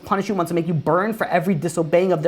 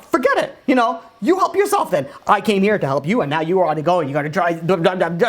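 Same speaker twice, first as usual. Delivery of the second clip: fed-up husband. Retold or imitated. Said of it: "He could be like".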